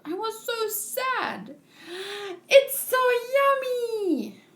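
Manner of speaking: lightly voiced little girl, bubbly; a hint of an excited kid; cheerful child voice. Voicing the child Toko.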